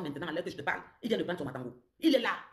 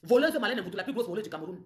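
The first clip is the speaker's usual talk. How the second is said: accusing shout; 3 semitones higher, 5 dB louder than usual. Real, not acted. Public accusation on a live.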